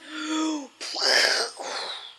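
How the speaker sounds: big dragon breath blown out; long effortful puff of air; huge breath. A narrator's reading. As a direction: huff and puff with nothing behind it. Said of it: "took another huge breath".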